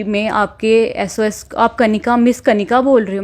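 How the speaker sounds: imitating a caller who speaks slowly. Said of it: "वो बड़ी धीरे-धीरे बात कर रहा था".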